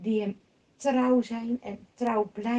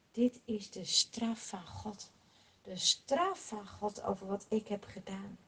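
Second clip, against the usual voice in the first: resigned; 6 dB quieter than usual. Acted. David humbly accepts punishment.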